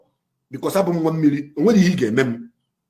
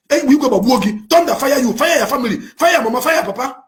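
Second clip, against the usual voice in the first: angry curse; 5 semitones higher than usual. Real, not acted. Cursing opponents with thunder.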